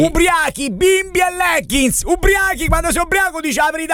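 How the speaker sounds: high-pitched, emphatic shouted explanation; spiegazione esasperata. Real, not acted. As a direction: spell the saying out at the top of your pitch. Riscandisce il detto a chi fraintende. (spiegazione urlata, acuta ed esasperata)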